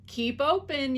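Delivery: high, loud command; yell. A narrator's reading. Dentist yelling at the fox to keep open. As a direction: shout the order. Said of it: "yelled Doctor DeSoto".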